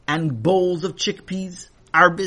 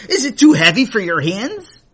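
teasing laugh; 6 semitones higher, 8 dB louder than usual. Acted. Man teasing Sammy.

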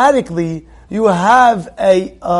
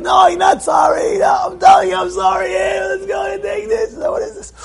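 much higher, shouted wife's refusal; mock wife's shrill protest; 13 semitones higher than usual. Husband's apology, wife shouts back high and indignant. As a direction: play the offended wife crying out high.

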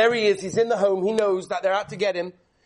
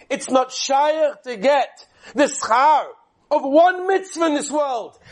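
preaching emphasis; 3 semitones higher, 6 dB louder, slower than usual. Real, not acted. Sermon climax, slow and loud.

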